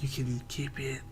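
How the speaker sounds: very quiet, barely voiced whisper. Playing a character who whispers to another in his ear: whispering in character. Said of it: "I'll whisper in his ear".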